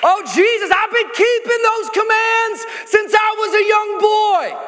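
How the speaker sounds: high, loud mock plea of the self-righteous; hammed-up pious boast; proud religious response. Rich young ruler boasting to Jesus in a loud mock voice. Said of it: "Classic religious response".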